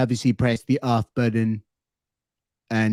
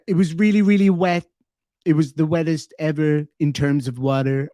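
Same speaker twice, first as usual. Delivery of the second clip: streamer retelling Trump's flood quote, mild imitation; imitating Trump. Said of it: "he said something to the effect of".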